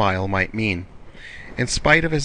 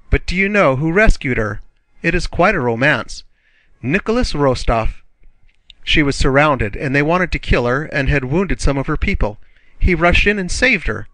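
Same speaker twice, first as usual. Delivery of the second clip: high, louder, breathless telling of a romance; eager gossip; 5 semitones higher, 3 dB louder than usual. Acted. Julie gossips to Pierre about the rescue, high and eager. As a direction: relish every dramatic detail.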